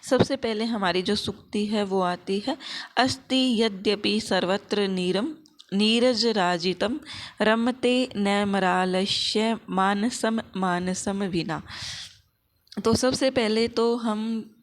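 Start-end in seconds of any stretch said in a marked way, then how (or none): 3.0-11.6 slow, carefully pronounced shloka; careful Sanskrit recitation. Shown as a demonstration. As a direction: recite the verse distinctly, drawing out the words. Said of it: "इनका जो उच्चारण है वो अच्छे प्रकार से". (सावधानी से स्पष्ट उच्चारण में धीमा श्लोक-पाठ)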